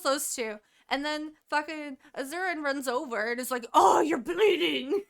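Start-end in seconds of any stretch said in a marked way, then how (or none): 3.7-5.0 high, slow, loud wail; mock alarmed shout. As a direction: cry out in hammed-up panic. Acted alarm of fae hero.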